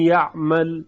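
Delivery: یعمل with the nun's nasal hum held on the ya; nasal merging. Shown as a demonstration. Teacher demonstrating nasalization kept in یعمل. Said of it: "این غنهٔ نون باقیه".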